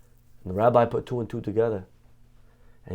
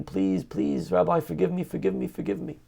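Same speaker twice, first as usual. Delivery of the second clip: pleading, crying; 4 semitones higher, 4 dB quieter than usual. Acted. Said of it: "he's praying and crying".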